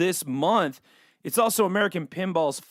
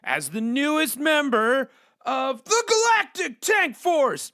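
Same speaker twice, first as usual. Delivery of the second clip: dramatic trailer read; slower than usual. Acted. Reading game intro dramatically.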